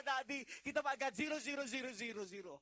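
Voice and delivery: put-on high, loud wailing child; hammed-up sobbing kid; crying child. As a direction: bawl it like a kid with a zero. Child wails about zero score.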